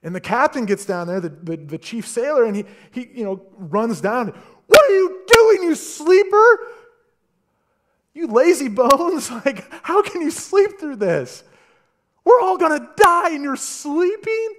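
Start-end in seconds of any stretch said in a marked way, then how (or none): 4.7-14.5 high, loud scolding shout at a sleeper; captain's yell. Acted. Ship's captain shouting at sleeping Jonah, loud and high. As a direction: wake him up with a furious high yell.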